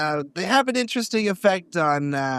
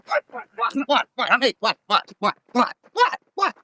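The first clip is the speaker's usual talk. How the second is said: confused startled; 6 semitones higher, slower than usual. Acted. Sudden confused outburst.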